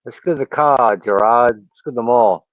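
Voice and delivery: playful Boston accent impression. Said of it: "a good deep Boston accent".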